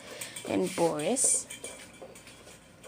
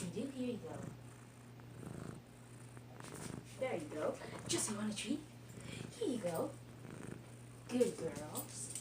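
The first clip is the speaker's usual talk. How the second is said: talking to a dog. Real, not acted. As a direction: coo treats to the dogs. Giving the dogs treats.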